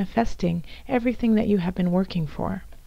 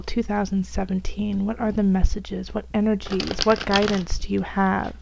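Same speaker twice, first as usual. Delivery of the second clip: prayerful invocation. Acted. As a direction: ask the spirit guides gently for their messages. Invocation before Scorpio reading.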